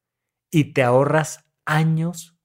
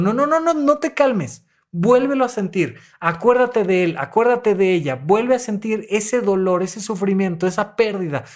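urging therapist; 4 semitones higher than usual. Retold or imitated. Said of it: "y les digo".

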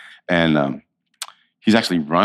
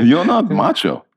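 put-on slower, higher, blunt Israeli accent; 8 semitones higher, 4 dB louder, slower than usual. Israeli friend bluntly telling him he's not macho, in an Israeli accent. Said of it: "that's very Israeli".

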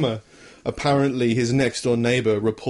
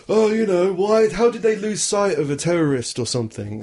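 mocking high horse; 7 semitones higher than usual. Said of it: "being like".

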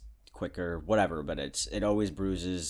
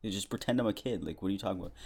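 higher, louder mock protest; indignant retort; 5 semitones higher, 5 dB louder than usual. Telling off the nurse in his head, indignant and raised. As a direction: fire back like a kid who doesn't care.

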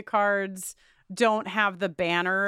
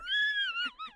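high squealing laugh; shrieking laugh; 6 dB quieter than usual. Real, not acted. Laughing at own joke.

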